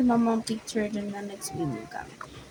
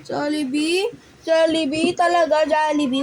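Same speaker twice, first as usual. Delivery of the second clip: higher, louder Jollibee calls; excited, disbelieving; 4 semitones higher, 6 dB louder than usual. Real, not acted. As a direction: ask eagerly, can't believe it. Sibling asks for Jollibee.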